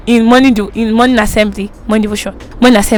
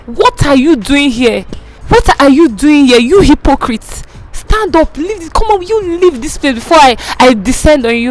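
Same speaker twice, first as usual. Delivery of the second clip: retold shouting; 3 semitones higher than usual. Owner's wife yells at the assistant pastor, high mock shout. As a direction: imitate the owner's wife yelling at her. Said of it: "the way she was shouting at me".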